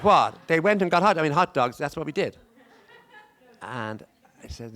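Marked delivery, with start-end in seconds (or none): 0.0-2.4 loud, much higher, incredulous What?; outraged surprise, pitched way up and louder; retold disbelief. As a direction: recall your shock at the question.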